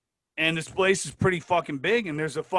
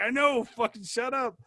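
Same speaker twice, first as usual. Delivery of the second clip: exasperated hushing; 10 semitones higher than usual. Retold or imitated. Buddy hushing him near sergeant.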